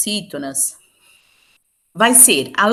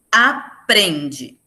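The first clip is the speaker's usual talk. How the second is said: Aprende split as a-PREN-de, the middle syllable held; stress on PREN. Shown as a demonstration. Teacher showing students the strong syllable, stress on PREN in Aprende. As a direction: sound out Aprende slowly, leaning on PREN. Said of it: "eu sinto que é a sílaba mais forte".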